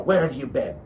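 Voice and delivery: lightly mimicked demanding mother; a hint of an annoyed mom, pressing for an answer; mom's little voice. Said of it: "I had that little voice in my mom".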